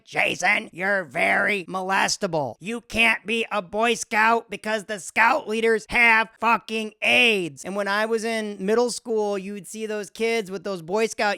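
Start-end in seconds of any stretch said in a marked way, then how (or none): 0.0-7.6 a hint of a worried mother laying down the law; mom's warning. Comedian voicing his mom's warning to him, lightly. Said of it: "My mom was like".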